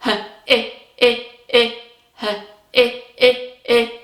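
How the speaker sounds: I said as the short i sound. Shown as a demonstration. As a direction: repeat the short i in his. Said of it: "figure out the next letter".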